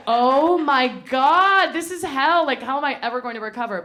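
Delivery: high loud melodramatic wail; mock despair. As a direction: ham up teenage heartbreak. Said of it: "I'm like".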